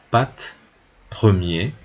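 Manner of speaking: "pat" y "premier" dichos a la francesa, "premier" con R francesa; pronunciación francesa. Shown as a demonstration. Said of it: "Aquí también A". (ejemplos leídos en francés)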